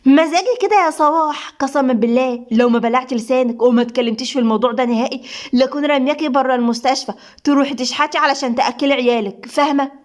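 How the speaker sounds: mildly venomous threat; spiteful malice. Acted. Doctor threatening to sack the nurse, spiteful. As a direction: threaten her with restrained spite. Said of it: "نادين بحقد وغل".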